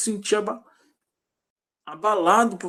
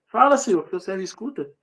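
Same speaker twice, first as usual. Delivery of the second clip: demonstrated shout; 2 semitones higher than usual. Acted. Preacher shows believer answering God wherever they are, shouting. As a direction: cry out to God, hardest on the first words. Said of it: "Grita lá onde você tiver".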